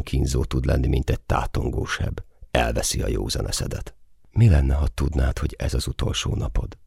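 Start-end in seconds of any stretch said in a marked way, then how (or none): 4.3-6.8 gently asks, unhurried and soft; soft-spoken question. Acted. Woman softly asks the soldier about his last day, gentle. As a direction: ask it softly, like a tender thought. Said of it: "kérdezi lágy hangon".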